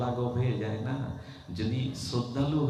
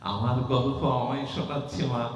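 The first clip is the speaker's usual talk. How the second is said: delighted god's musing; 4 semitones higher than usual. Acted. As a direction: marvel at hearing his own story. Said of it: "ভগবান মনে মনে বলছেন". (উঁচু স্বরে মুগ্ধ ভগবানের স্বগতোক্তি)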